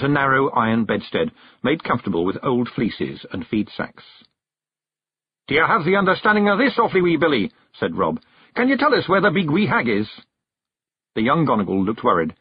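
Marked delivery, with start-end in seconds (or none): 5.5-10.1 higher Scots brogue, pressing questions; Rob, puzzled Scots chief. A narrator's reading. Rob presses young Billy about the strange horse, urgent Scots voice. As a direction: demand an answer from the lad.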